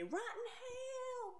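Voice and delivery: shrieky imitation at half volume; imitated yelling. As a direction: stretch out a hammed-up tearful yell. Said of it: "She was yelling at him".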